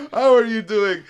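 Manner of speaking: high, loud mock greeting; imitated Arab clerk. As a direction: call out the clerk's hello. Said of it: "I just love the way they set it up".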